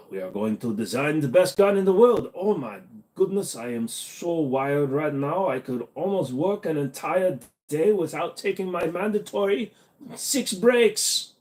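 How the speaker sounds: hyped up wired voice; jittery, buzzing with energy; too much caffeine. Acted. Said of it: "I blame the cocaine".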